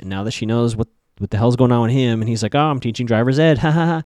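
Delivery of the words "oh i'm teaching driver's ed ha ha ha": awkward joking quote with fake laugh; joke-not-joke. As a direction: play it as a half-joke, forced ha-ha. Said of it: "they have a weird joke, not joke moment".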